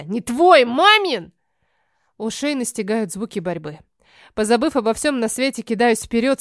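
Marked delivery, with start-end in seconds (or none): 0.0-1.3 put-on louder, higher childish retort; shouting back. Alisa yells at Sofia about mom's slice, loud retort. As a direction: fire it back at your sister. Sisters quarrel over pizza.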